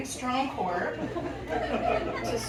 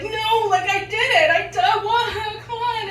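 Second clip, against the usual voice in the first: high, loud flustered protest; retold indignant sputtering; vehement denial; 11 semitones higher, 6 dB louder than usual. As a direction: stammer out a high-pitched objection. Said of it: "vehemently deny it".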